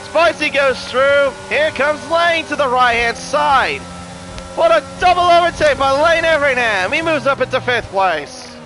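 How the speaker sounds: excited commentary. Real, not acted. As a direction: build the hype through the double overtake. Live overtake, commentator excitement.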